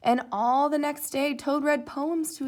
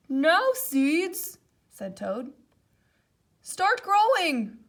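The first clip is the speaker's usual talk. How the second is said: slower, higher, coaxing the seeds; 5 semitones higher, 7 dB louder, much slower than usual. A narrator's reading. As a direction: ask the seeds politely to grow. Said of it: "said loudly".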